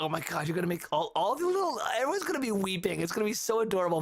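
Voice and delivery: lightly voiced gushing guest; mock gushing. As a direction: play a swooning wedding guest, rushing. Imitating gushing wedding guests.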